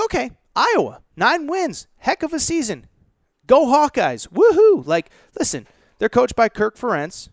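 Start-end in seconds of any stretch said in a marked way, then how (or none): 0.0-4.9 higher, hammed-up cheery fan voice rising to a mock whoop; mock naive fan. Podcaster mocking a naive Iowa fan, hammed-up higher cheering. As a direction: play a gullible Iowa fan cheering, tongue in cheek. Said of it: "And you think".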